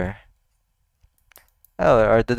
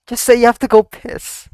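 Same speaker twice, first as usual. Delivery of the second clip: urging shout; 9 semitones higher, 7 dB louder than usual. Real, not acted. Urging the character on the screen.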